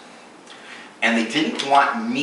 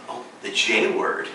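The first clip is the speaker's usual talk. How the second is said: soft, almost whispered mock secrecy; hushed acting-out; 3 semitones lower, 5 dB quieter than usual. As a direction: say it hushed, like a forbidden word. Feigned hush over forbidden word.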